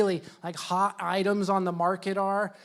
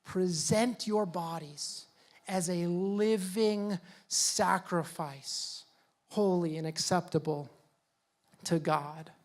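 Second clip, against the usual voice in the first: quiet solemn reading; 5 dB quieter, slower than usual. Retold or imitated. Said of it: "And he says".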